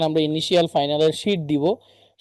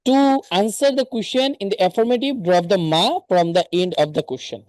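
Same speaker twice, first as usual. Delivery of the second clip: reading a grammar rule aloud, slowly and evenly; slow textbook reading; much slower than usual. Acted. Teacher reads a grammar rule slowly to her online class. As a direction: spell out the rule slowly for learners.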